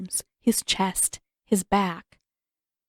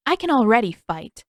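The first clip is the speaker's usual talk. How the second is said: snapped; 3 semitones higher, 6 dB louder than usual. Acted. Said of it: "Aang snapped".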